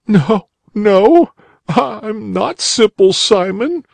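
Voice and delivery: put-on high young boy's voice, a little slow; tearful boy. A narrator's reading. Crying boy answering the rabbit, high young voice.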